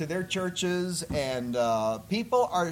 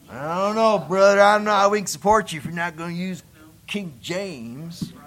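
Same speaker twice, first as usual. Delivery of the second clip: mock pastor; 5 dB louder than usual. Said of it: "pastor's retort voiced".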